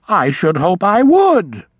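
a little puffed up; touch of pride. A narrator's reading. Old vole asked the way, a touch proud. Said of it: "with a touch of pride".

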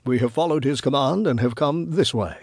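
gentle, measured authority; tender yet authoritative. Acted. Wise man tells old woman to stand aside, tender yet firm. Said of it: "He spoke tenderly, yet with authority".

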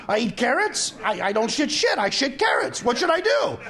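worked-up comic patient, climbing in pitch; mock desperation. Patient begs doctor for help, mock desperate. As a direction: plead with rising, hammed-up bewilderment to the final question.

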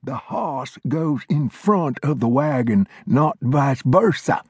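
put-on high, reedy old-timer lecturing; old mountain man voice. A narrator's reading. Old Glover scolding Flintlock, high old-timer voice. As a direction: play the cranky old coot setting him straight.

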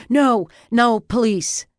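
loud, high panicked refusal; alarmed protest. A narrator's reading. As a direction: object urgently, voice jumping up. Wounded man objects to police.

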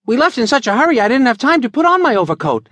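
put-on high, artless boyish explanation; an innocent kid owning up; guileless boy. Billy explaining the forgotten overcoat, high and guileless. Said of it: "explained Billy guilelessly".

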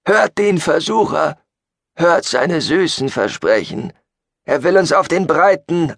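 high, declaimed rabble-rousing sermon; preaching to followers. Acted. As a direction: exhort the congregation against the tempter. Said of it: "sondern mit seiner Gefolgschaft". (beschwörend predigend, mit hoher Stimme)

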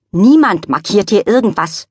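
Lilly scolding her dog sternly. Acted. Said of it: "sagte Lilly streng".

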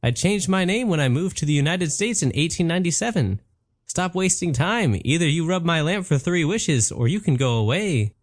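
a genie running out of patience; genie Patrick. Acted. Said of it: "Patrick explained".

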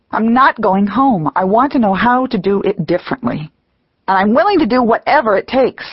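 fierce, desperate. Acted. Woman refusing the grandmothers, fierce and desperate declaration. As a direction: hurl it back at the voice, refusing to yield. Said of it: "This last declaration is fierce, desperate".

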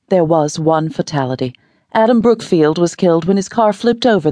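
lightly voiced newscaster, solemn; news read. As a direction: deliver the report like an anchor. Newscaster reads report.

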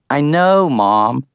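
put-on huffy, annoyed teen. A narrator's reading. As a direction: sigh it out huffily. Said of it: "as much huffiness in my voice".

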